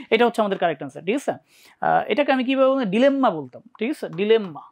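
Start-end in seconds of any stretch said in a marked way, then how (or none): 2.8-3.3 ডিলেম্মা with the mm held long; doubled m. Shown as a demonstration. Teacher showing how she said it, doubled m. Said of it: "ডিলেম্মা এইভাবে বলতাম". 4.1-4.6 ডিলেম্মা with the mm held long; doubled m. Shown as a demonstration. Teacher showing how she said it, doubled m. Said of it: "ডিলেম্মা এইভাবে বলতাম".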